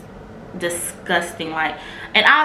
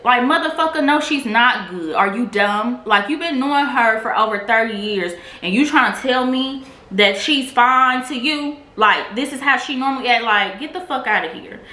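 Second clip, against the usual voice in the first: outraged; 4 semitones higher than usual. Real, not acted. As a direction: rant in disbelief. Outraged at the donor.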